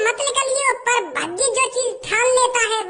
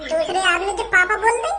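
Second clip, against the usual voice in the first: incredulous echo with a rising question; surprised; 4 semitones lower than usual. Real, not acted. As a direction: repeat it back in disbelief. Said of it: "क्या?". (हैरानी से दोहराया सवाल)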